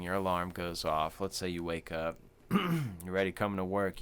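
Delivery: ordinary talk, nothing marked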